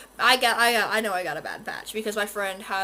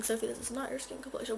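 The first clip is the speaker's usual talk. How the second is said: viewer voice; 8 dB quieter, faster than usual. Pretend. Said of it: "Now you're thinking".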